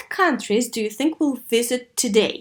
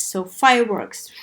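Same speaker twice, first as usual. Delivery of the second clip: whisper; 3 semitones lower than usual. Shown as a demonstration.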